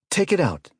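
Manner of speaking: loud, high command to fire; sharp order. A narrator's reading. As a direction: bark the order to destroy. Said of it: "Vanoff ordered".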